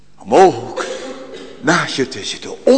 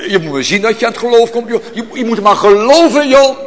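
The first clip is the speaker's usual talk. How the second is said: mock offhand; 8 semitones higher, 4 dB louder, much faster than usual. Mock dismissive voice, laughing.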